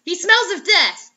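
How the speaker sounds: mock-ominous announcement; dramatic reveal. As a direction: deliver it like a campy horror twist. Dramatic reading of horror story.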